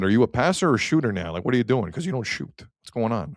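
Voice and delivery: lightly imitated New York accent. Coach questioning Nylander after morning skate, light New York accent. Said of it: "gave him a New York accent".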